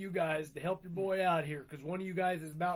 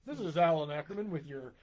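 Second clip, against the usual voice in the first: newscaster voice; 2 semitones lower than usual. Pretend. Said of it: "Sounds like a newscaster".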